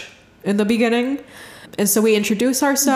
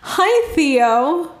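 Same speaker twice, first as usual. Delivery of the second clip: tender greeting; 7 semitones higher than usual. Retold or imitated. Retold tender greeting to spirit.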